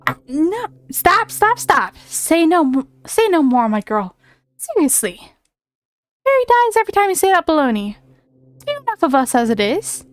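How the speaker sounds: put-on a fairy hushing the girl's baloney; indignant Tooth Fairy. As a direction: huff at the girl like an offended fairy. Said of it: "I'm giving him that kind of voice".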